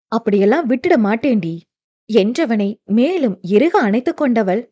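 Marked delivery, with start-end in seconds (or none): 0.1-1.5 quick, lightly lowered vow; firm husband promise. Acted. Dev vowing to his wife, quick and lightly lowered.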